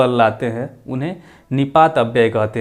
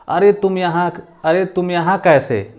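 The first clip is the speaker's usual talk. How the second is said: surprised; 4 semitones higher than usual. Shown as a demonstration. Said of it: "अचानक में बोलते".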